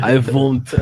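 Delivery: I won't, imitated in light Russian; mock Russian accent. Teasing his friend with a mild Russian accent. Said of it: "speaking in a Russian accent".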